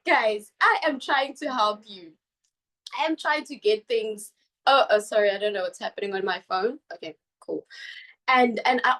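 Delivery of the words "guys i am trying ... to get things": imitating her own frustrated scolding. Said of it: "me being frustrated".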